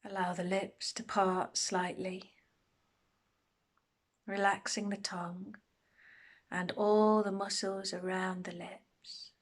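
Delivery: unhurried meditation guide, long pauses between phrases; guided meditation. Acted. Meditation teacher settling listeners into a body scan, calm guided delivery. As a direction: guide them gently through a body scan, pausing often.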